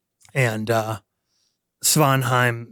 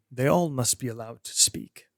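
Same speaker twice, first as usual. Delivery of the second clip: calm elder; 6 dB quieter than usual. Acted.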